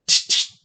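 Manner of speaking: imitated cat noise, two short bursts; cat's hiss. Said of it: "the cat looked and went".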